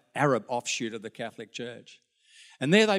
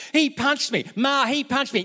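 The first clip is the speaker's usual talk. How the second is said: very high, whiny complaint to mum; shrill kid tattling, much higher; tattling child; 11 semitones higher, 4 dB louder than usual. Retold or imitated. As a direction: tell on your brother. Grandkid telling on brother.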